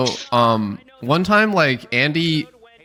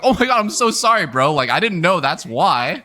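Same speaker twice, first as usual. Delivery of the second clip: much higher, gushing "so sorry"; mock apology; 4 semitones higher than usual. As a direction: blurt out a sheepish apology. Players apologizing to Curry.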